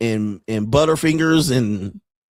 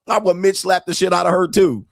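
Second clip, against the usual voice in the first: usual speaking voice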